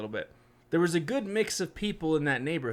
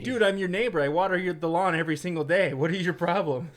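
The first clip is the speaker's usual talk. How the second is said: annoyed neighbor; 3 semitones higher, 4 dB louder than usual. Retold or imitated.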